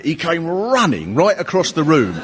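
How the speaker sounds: ordinary delivery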